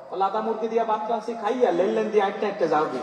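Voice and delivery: North Bengal speech dropping the r, লাদা for লাল; North Bengal accent. Retold or imitated. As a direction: imitate North Bengal folk with r sounding as l. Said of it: "তারা র উচ্চারণ করতে পারে না".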